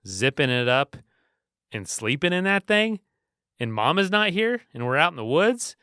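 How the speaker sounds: a hint of a frightened little boy, rising as he lists the fears; imitating panicky son. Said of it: "He's like".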